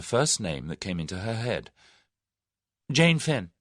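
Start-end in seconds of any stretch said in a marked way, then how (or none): 2.9-3.5 blurted out, louder and higher; hastily. A narrator's reading. Tuppence blurts a false name to Whittington, hasty. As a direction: grab the first name and blurt it. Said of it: "she said hastily".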